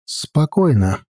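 calm words said through clenched teeth. Acted. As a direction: say it without unclenching the teeth. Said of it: "не разжимая зубов".

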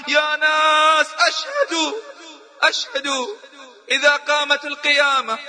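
صيحة أعلى نبرة، بطيئة في البداية; نداء باكٍ للناس بصوت مرتفع; صياح مقلَّد. Retold or imitated. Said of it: "وهو يصيح في وسط الحرم". (الشاب يصيح في الحرم أمام الناس بصوت أعلى)

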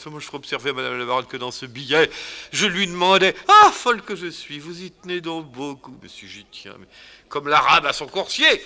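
high, loud, fast swooning gush; gushing baroness. Acted. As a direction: swoon over the note, breathless. Baroness gushing over the letter.

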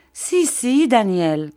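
high-pitched woeful contradiction; plaintive insistence. A narrator's reading. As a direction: insist on your misery, starting high. Gummidge insists on her misery.

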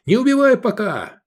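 high loud urgent command; urgent shout. Acted. Iskander shouting at Edik to spare the prisoner. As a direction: stop him with a yell. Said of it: "раздался крик Искандера".

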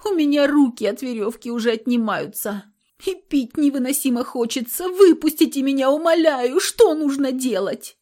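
high, rising, loud desperate begging; girl begging the guards to let her out; pitiful pleading. A narrator's reading. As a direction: plead like she's breaking. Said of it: "в голос жалобности".

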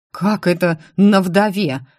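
slow, mildly indignant question; a touch of outrage, drawn out. Acted. Maximilian objects to the widow remark, mildly indignant. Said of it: "возмутился Максимилиан".

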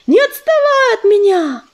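breathless high shout; gasping out a call; urgent panting report. A narrator's reading. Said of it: "задыхаясь, выкрикнул".

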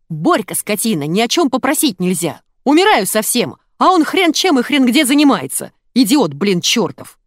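high, loud scolding tirade; angry yelling. A narrator's reading. Wife berating her husband over the phone, angry yelling. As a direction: build to a furious peak, then curse. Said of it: "гневный крик Заи".

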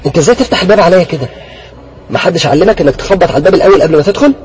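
loud, high, scolding her brother; angry scolding. Acted. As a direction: tell him off for barging in. Sister scolds Mohamed for barging in.

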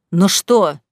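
sharp, loud bark of a question; angry husband barking at his lying wife. A narrator's reading. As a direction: snap it back at her. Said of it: "рявкнул Саид".

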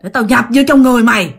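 lightly voiced growling male spirit, hurried; a quick, half-acted menacing growl; imitated growl. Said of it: "mà nói gầm gừ, gầm gừ vậy đó".

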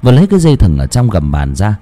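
tense storyteller voice over music; ominous audiobook narration; horror story narration. A narrator's reading. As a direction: read the scene with creeping dread.

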